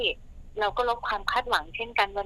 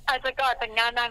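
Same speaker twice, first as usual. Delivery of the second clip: laughing; 2 semitones higher, 3 dB louder than usual. Real, not acted. Laughing about husband's soft voice.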